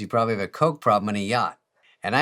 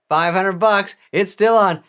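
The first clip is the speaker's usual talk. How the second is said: put-on high, loud, triumphant kid voice; gleeful gloating; 11 semitones higher, 11 dB louder, slower than usual. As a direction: crow over the hidden cash like a cheating little brother. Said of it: "And then I go".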